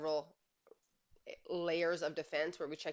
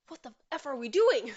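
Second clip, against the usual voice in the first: louder, higher, laughing in disbelief; exasperated outburst; 8 semitones higher, 10 dB louder than usual. Real, not acted. Coach venting about a husband who won't listen, exasperated laughing outburst.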